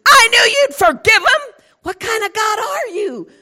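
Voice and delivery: high, loud, crying complaint; tearful outrage. Acted. Jonah accusing God of mercy, crying loudly. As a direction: sob out the accusation.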